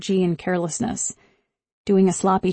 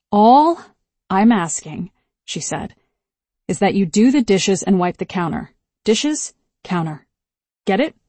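scolding; 3 dB louder than usual. Acted. Mother scolding daughter over chores.

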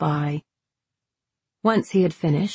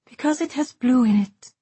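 flat; 7 semitones higher than usual. A narrator's reading. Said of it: "she said flatly".

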